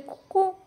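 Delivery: "कुकू" lifted high like a bird call; imitating a cuckoo. Shown as a demonstration. Teacher imitating a bird for students, light high call. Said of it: "the word cuckoo".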